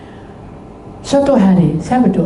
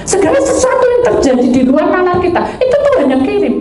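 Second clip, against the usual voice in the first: preaching emphasis; 9 semitones higher, 4 dB louder than usual. Real, not acted. Preaching the point to congregation.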